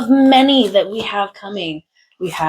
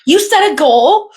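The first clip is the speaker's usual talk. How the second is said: mock shock; 10 semitones higher, 5 dB louder than usual. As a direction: gasp it as fake outrage. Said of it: "It's like".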